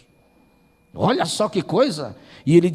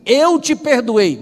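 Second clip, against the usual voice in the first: slow solemn words; 4 semitones higher, 5 dB louder, much slower than usual. Acted. The Lord speaks to him.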